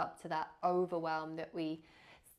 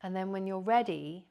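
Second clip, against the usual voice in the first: guided meditation. Real, not acted. Yoga teacher leading listeners into body awareness, calm guided meditation. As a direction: guide them gently into rest, leaving long silences.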